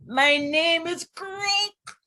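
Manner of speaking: high, slow put-on frog voice. Teacher voicing a frog in a picture book, high and slow. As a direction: speak as a little frog introducing itself.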